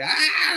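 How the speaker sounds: sudden high startled cry; a sharp shocked yelp at bad news; panicked yelp. Yelps on hearing his son needs the hospital.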